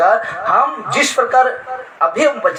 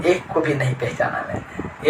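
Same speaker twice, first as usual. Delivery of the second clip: voice of God; 4 semitones lower, 6 dB quieter than usual. Retold or imitated. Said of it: "उस समय परमेश्वर क्या कहेगा?".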